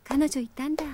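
low stunned whisper; whisper to herself. Real, not acted. Girl learns her crush has a girlfriend, whispering. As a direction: breathe it out, barely voiced.

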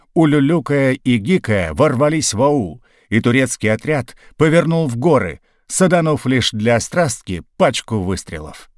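ordinary delivery

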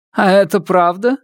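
stern widow. Acted. Widow questions ghost.

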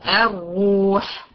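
الروح slow, with thick double R; drawn-out, rounded الروح; heavy doubled ra. Shown as a demonstration. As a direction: hold a heavy R and long u in الروح. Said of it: "ري شدة وضمة".

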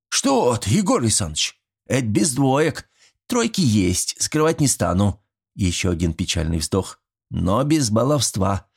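put-on a sly old man coaxing his neighbor; folksy old villager. Old Mitrich inviting Yegor over for fish, chatty and folksy.

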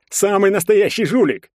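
high, loud outburst; squealed accusation. A narrator's reading. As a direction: hurl the accusation at him. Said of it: "взвизгнул Олег".

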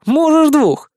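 magnanimous, cheeky permission; generous allowance. Acted. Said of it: "великодушно разрешил Никитка". (великодушно, звонко)

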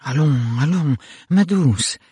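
mildly soothing husband; gentle protest. A narrator's reading. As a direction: protest kindly, soothing a wife. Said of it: "protesta gentiment Charles".

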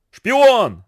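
a furious yell of spy. A narrator's reading. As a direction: hurl the accusation as a bellow. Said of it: "заорал Клингбе".

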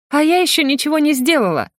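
high smirking retort. A narrator's reading. Akimova smirks at the investigator, smirking. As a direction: grin through the words. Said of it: "усмехается Акимова".

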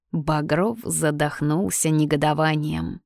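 ordinary delivery

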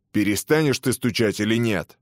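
a touch of impatience, mildly voiced; irritated warden. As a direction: press him, only mildly annoyed. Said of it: "спросил начальник тюрьмы".

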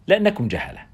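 a high, gleeful jab, savoring the insult; enjoy calling them ignorant; with relish. Acted. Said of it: "وقالها في استمتاع".

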